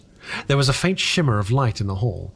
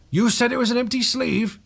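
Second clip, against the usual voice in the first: high, tense menacing question; a sinister stranger closing in; 11 semitones higher than usual. A narrator's reading. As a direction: press him with a sinister question.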